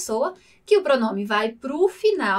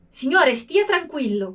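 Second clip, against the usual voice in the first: curt, slightly rude reassurance; a touch of rudeness. Shown as a demonstration. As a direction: say it a bit rudely, brushing them off. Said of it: "com um tom mais assim, tá sendo meio grosso".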